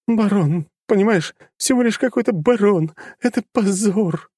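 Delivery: high, wailing daughter; wailing lament. A narrator's reading. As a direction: lament the disgrace tearfully. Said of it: "продолжала причитать Людмила".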